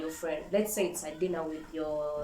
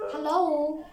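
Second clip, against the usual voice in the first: Kardashian imitation; 8 semitones higher, 4 dB louder than usual. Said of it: "Kardashian laughs like".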